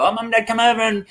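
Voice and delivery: high, quick sing-song invite; mock daughter. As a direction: put on a chirpy high girl voice. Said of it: "she invited her mum and dad".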